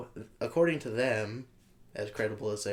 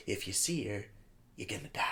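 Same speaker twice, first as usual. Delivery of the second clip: hushed, ominous warning; low creepy warning, trailing off; slow ominous raspy drawl; 3 semitones lower, 7 dB quieter than usual. Retold or imitated. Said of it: "he was basically saying".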